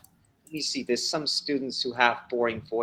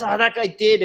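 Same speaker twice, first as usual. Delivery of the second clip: normal talking voice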